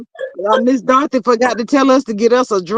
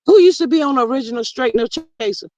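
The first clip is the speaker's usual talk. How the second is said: louder, faster repeat; 3 semitones higher, faster than usual. Real, not acted.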